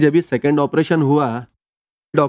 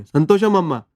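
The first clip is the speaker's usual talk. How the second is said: a mild mock call of संतोषम अम्मा, a little higher; said louder; 4 semitones higher than usual. Comforting the crying wife, संतोषम अम्मा said a little higher and louder. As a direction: raise the voice gently on संतोषम अम्मा. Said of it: "फिर जोर से बोले".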